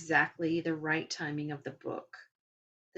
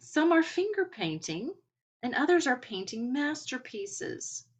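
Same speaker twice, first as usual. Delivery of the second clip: delighted; 6 semitones higher, 4 dB louder than usual. Retold or imitated. Quoting guide's playful crayon joke.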